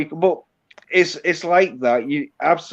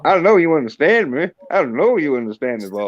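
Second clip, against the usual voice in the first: mock Southern American accent; put-on Southern accent. Shown as a demonstration. Yorkshireman needling his American friend, put-on Southern accent. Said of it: "I think I'll keep it".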